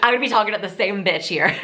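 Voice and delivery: quick-paced demonstration. Shown as a demonstration. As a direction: pick up the pace. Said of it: "when you talk faster".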